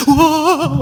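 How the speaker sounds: high exclaimed wow of wonder; amazed wow. Shown as a demonstration. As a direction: show the men how to gasp in awe. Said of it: "이렇게 놀래주셔야 돼".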